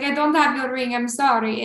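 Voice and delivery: lightly imitated Albanian accent. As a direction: apologise with a hint of Albanian accent. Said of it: "I'm just trying to do his cute accent".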